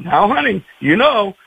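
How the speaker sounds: lightly voiced preachy grandmother; mild, quick mock sermon to a child; sermonizing grandmother. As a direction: gently lecture a small child. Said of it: "she gave him a sermon".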